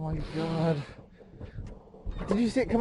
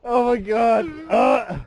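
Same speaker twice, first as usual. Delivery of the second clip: disgusted shout; 4 semitones higher, 3 dB louder, slower than usual. Real, not acted. Disgusted reaction.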